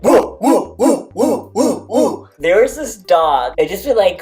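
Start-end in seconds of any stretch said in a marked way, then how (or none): 0.0-2.2 high, loud howling woo sounds; dog howl imitation. Volunteer imitates the dog Jade howling, high woos. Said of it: "she'd be like".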